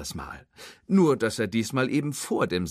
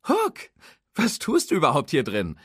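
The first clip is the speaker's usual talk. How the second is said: brusque interruption; 7 semitones higher, 5 dB louder than usual. Acted. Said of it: "unterbrach ihn barsch".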